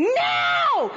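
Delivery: sudden high yelled no; shouted no. Retold or imitated. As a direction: yell it at the squirrel. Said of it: "And I'm going".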